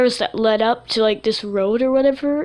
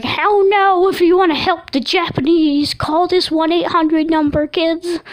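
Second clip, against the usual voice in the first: high, loud cartoon host voice for the killer apple; sing-song kids' TV host pitching a hotline; creepy kids-show apple; 7 semitones higher, 4 dB louder than usual. Killer apple on a kids' show addressing children, high cartoon voice. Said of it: "it was like".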